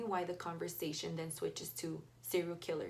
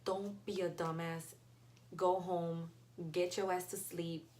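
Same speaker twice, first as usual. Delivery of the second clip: inner voice; slower than usual. Retold or imitated. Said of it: "something inside of me ... told me".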